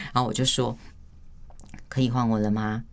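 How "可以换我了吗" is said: composed, patient request for a turn; calm and steady. Shown as a demonstration. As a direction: ask evenly, slightly low, with no edge. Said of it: "我会比较平稳".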